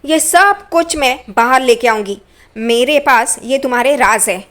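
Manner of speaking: imitating Roshni warning Chitti, mildly worked up; retold threat. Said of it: "रोशनी भड़कती है और उसे धमकी देती है". (हल्की सी गुस्से भरी धमकी)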